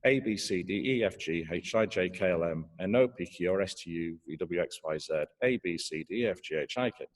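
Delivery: alphabet on a single conversational breath, running down; counting letters till the breath is gone; reciting on one breath. Shown as a demonstration. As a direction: keep reciting until the air runs out. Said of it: "If you start reciting the alphabet".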